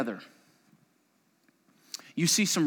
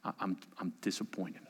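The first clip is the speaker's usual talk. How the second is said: disappointed prayer; 4 dB quieter than usual. Acted. Confessing disappointment with God.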